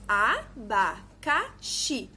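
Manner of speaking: ABACAXI split as a, ba, ca, xi; syllable by syllable. Shown as a demonstration. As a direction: say abacaxi slowly in four separate, evenly weighted syllables. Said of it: "Quatro sílabas".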